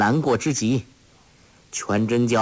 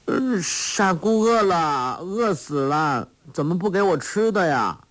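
put-on simple girl crying out; 7 semitones higher than usual. A narrator's reading. Sha Gu complaining she is hungry, high childlike whine. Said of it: "忽然一人叫了起来".

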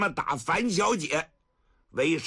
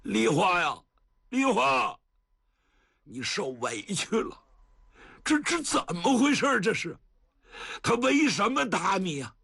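tender grandpa; 5 semitones higher than usual. Acted. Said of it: "真有点心疼啊".

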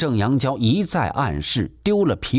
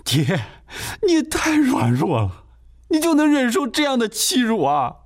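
crying in frustration; 13 semitones higher than usual. Acted. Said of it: "罗甲成都被急哭了".

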